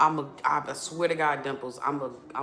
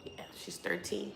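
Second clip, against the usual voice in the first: soft whisper; 8 dB quieter than usual. Real, not acted. Soft aside to chat.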